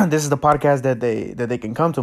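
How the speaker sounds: cracking voice, nervous. Real, not acted. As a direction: voice cracks mid-sentence. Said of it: "My voice cracked".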